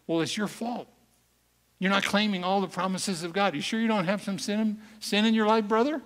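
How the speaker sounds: mock the pushy evangelist, rising as he accuses; preachy Christian blaming. Mocking the preachy Christians' blame.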